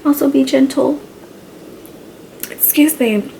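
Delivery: speaking through heartburn; a touch of heartburn discomfort. Real, not acted. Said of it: "I have, like, heartburn right now".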